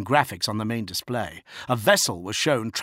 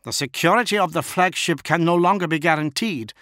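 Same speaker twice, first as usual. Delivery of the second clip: stern bodyguard, raised voice; firm warning; 8 semitones higher, 5 dB louder than usual. A narrator's reading. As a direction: warn him firmly. Bodyguard warns lord.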